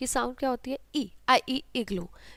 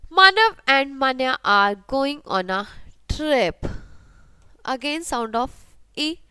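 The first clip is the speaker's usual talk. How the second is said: reading rhyme aloud; 3 dB louder than usual. Shown as a demonstration. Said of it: "read the rhyme".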